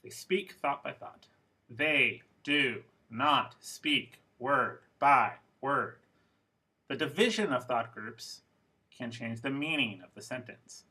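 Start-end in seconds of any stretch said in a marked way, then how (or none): 1.7-6.0 each word set apart slowly. Shown as a demonstration. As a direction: say it slowly, one word at a time. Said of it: "just listen to how I say these things".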